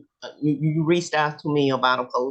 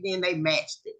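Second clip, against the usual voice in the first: ordinary delivery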